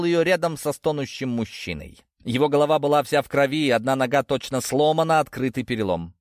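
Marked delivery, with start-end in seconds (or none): none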